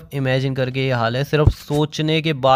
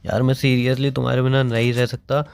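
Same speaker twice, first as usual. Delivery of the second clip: crying; 5 semitones lower than usual. Real, not acted. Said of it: "रो रहा हूँ".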